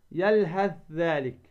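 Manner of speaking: slow "يلهث ذلك" as yalhadh-dhalik; tha merged into dhal. Shown as a demonstration. Teacher reciting the rule's example, يلهث ذلك merged on ذ. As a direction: turn ث of يلهث into doubled ذ. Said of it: "فتدغم الثاء في الذال".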